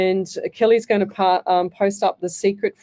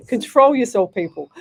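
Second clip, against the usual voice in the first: mock stern; 2 semitones higher, 4 dB louder than usual. Mock-stern order to viewers.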